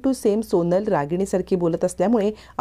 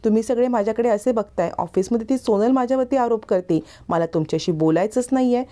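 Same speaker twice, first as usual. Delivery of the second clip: higher, pleading, near tears; crying childlike plea; 6 semitones higher than usual. A narrator's reading. Childlike man pleads innocence to his aunt, tearful and higher. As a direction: protest innocence like a hurt child. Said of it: "आकाश बिचारा रडायला लागतो".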